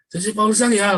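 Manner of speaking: passerby recognizing the preacher, excited; excited fan. Retold or imitated. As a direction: gush like a fan spotting a celebrity. Strangers recognizing him on street.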